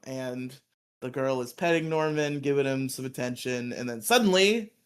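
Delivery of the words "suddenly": slow, loud, drawn-out villain announcement; monster announcer. Acted. Announcing Pudgy Pig's return to the audience, slow and loud. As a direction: boom out the villain's entrance.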